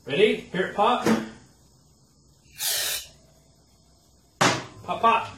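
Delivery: high thrilled shout; squealing with delight; excited. Real, not acted. Engine pops.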